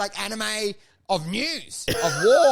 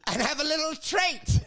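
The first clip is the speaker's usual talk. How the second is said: lightly put-on storybook narrator, sly and sweet; cartoon narrator voice; 4 semitones higher than usual. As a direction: read it like a kids' cartoon voiceover. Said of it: "they go".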